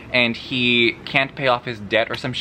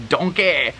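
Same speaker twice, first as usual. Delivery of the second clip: higher, imitated Shrek accent; 4 semitones higher than usual. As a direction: call it out in a mock Shrek accent. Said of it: "sounded like Shrek".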